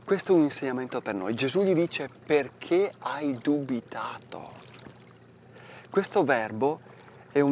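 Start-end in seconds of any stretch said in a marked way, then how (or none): 2.1-4.5 "Perché hai dubitato?" slow and drawn out; gentle rebuke. Acted. Priest voicing Jesus questioning doubting Peter, slow. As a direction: ask it slowly, weighing each word.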